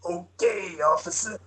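Vortigaunt voice. Acted. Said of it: "I'll do the Vortigaunt voice".

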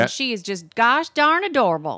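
put-on Texas accent. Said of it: "she's from Texas".

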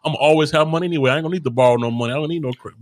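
lightly voiced cocky brush-off; a hint of swagger, waving it off; arrogant younger self. Young man bragging he needs no credit, lightly cocky. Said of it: "that's what I say".

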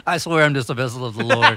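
laughing through a borrowed line; a light put-on movie voice; quoting a movie character. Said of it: "He's like".

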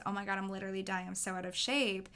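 rattled off fast; fast, throwaway gripe about being unfit; mock complaint. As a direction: toss off the complaint in a rush. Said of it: "a woman turns to you and says".

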